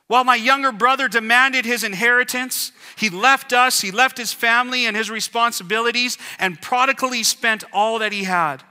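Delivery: put-on older brother protesting to his father; aggrieved older brother. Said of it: "as his perspective is".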